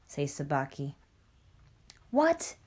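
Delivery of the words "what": higher-pitched startled question; a quick, surprised "what". A narrator's reading. Father Wolf reacts to news of the tiger, surprised.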